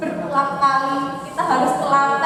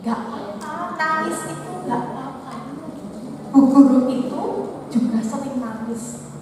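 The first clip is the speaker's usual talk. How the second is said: soft reassuring. Retold or imitated. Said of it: "saya bilang begini".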